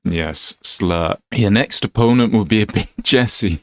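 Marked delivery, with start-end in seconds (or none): 1.3-3.6 lightly put-on Glaswegian; Scottish accent. Trainer announces the next opponent, Scottish accent. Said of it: "Sorry about the Scottish accent".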